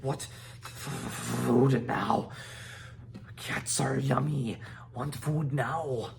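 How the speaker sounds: small dragon squawking for food; greedy little dragon demanding fish; dragon shouting. A narrator's reading.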